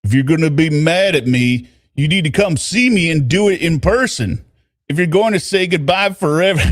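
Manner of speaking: a hint of a Southern accent. Boyfriend asks for goodbye in person, light Southern accent. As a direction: read his words with a light Southern lilt. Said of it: "version of his accent".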